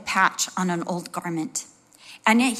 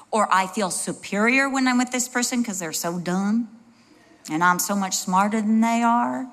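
put-on slipping into a Southern accent. Speaker mocking feeling superior to someone, light Southern accent. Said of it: "I always go to a Southern accent".

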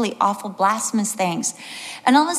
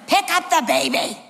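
high-pitched, exasperated command; acting out a husband telling his wife what to do; insistent raised-pitch instruction; urgent order; 6 semitones higher than usual.

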